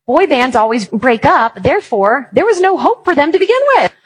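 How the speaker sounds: smug logic. Retold or imitated. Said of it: "I was like".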